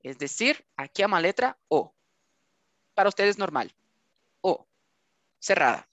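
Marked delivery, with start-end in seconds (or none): 4.4-4.6 O said closed, as in capô; closed O vowel. Shown as a demonstration. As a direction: show the closed O. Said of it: "Deixa a nossa letra fechada".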